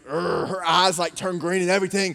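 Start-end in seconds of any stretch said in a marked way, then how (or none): 0.0-0.5 mock growl. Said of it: "And Evie's like".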